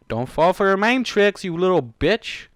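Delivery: angry reader yelling at a character; angry scolding. Real, not acted. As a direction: warn him angrily.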